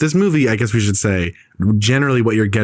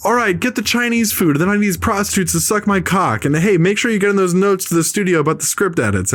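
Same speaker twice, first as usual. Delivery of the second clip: sleazy producer voice; 10 semitones higher than usual. Retold or imitated. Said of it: "He's like".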